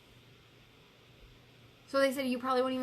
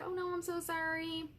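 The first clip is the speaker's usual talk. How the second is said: higher, softer gushing sympathy; imitating friends offering condolences, pitched up; sympathetic friends; 7 semitones higher, 4 dB quieter than usual. Friends reacting to her post, higher gushing sympathy. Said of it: "people are like".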